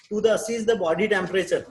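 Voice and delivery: drawn-out, evenly spaced words; slow dictation. Shown as a demonstration. Teacher dictating the first planning point, slow and deliberate. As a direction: spell it out slowly for note-takers. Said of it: "teacher dictating care plan".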